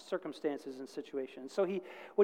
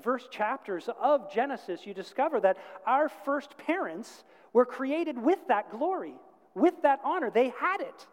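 fervent preaching; 6 semitones higher, 4 dB louder than usual. Real, not acted. Preaches with rising fervour.

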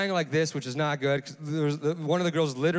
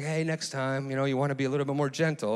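mild, unruffled advice; retold easygoing pilot, no alarm; calm correction. Pilot advises the learner after a near dive, calmly. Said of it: "the pilot calmly just kinda like".

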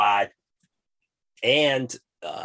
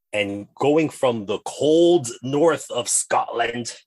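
slow, hammed-up Scottish accent; put-on Scottish accent, drawn out slowly; terrible Scottish accent; 4 semitones higher, 4 dB louder, much slower than usual. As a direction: roll it out in a bad Scottish brogue. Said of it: "my terrible accent".

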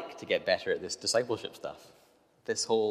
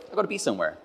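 exasperated; 3 semitones higher, 8 dB louder than usual. Retold or imitated. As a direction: huff and fume at the people ahead. Frustrated by slow walkers, exasperated.

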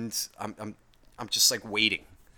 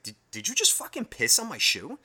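incredulous question; 5 semitones higher than usual. Retold or imitated. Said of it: "I asked her".

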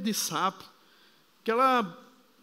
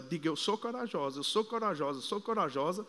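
put-on much softer, lower coaxing to a small child; gentle coaxing; 4 semitones lower, 6 dB quieter than usual. Father coaxing his scared little daughter, softly. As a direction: coax her gently, almost hushed.

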